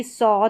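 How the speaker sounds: "सौ" ending in a drawn-out aw vowel; AW sound. Shown as a demonstration. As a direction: say "सौ" with a long open aw. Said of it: "इसको सा नहीं पढ़ेंगे".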